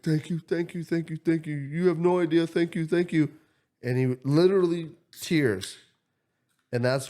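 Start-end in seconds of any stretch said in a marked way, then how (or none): 0.0-3.3 high, choked mock thanks; imitating tearful thanks. Stranger thanking the speaker for the money, high choked mock thanks. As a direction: thank him through tears. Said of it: "He started crying".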